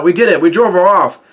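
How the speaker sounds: lightly imitated yell of triumph; a little lifted, like a retold victory shout; mild mock cheer. Crew yelling out after driving Big Mom off, mild mock cheer. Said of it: "are yelling out".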